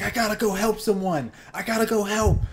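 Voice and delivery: imitating the girlfriend's alarmed hurry; urgent exclaiming. Girlfriend rushing out to help a stranger, urgent and excited.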